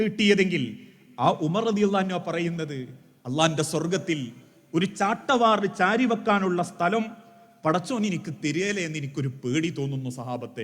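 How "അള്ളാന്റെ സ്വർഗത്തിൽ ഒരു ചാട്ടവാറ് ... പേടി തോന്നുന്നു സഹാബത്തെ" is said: lower, softer, tearful confession; tearful fear. A narrator's reading. Umar confessing his fear to his companions, softer and tearful. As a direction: let the fear break through quietly. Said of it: "കണ്ണുനീരോടെ തിരിച്ചു പറയുന്ന".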